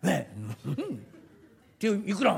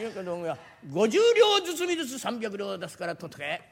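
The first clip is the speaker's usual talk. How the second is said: ordinary talk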